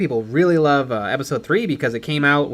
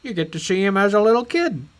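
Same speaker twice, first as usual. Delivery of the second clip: higher, lightly put-on director voice; George Lucas; 4 semitones higher than usual. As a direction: callback in mock director voice. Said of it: "George is like".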